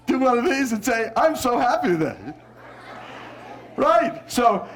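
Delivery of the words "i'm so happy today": happy, smiling delivery; big smile. Shown as a demonstration. Teacher showing parents how body colours voice, smiling. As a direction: let a big smile lift the words. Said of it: "Give me a big smile".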